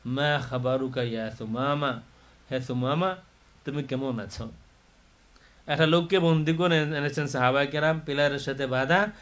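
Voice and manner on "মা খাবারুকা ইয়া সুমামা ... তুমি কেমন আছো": softer, gently voiced greeting; quiet, kindly retold question; affectionate. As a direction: ask after him with tender care. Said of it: "খুব আদর করে, স্নেহ করে বলতেছেন".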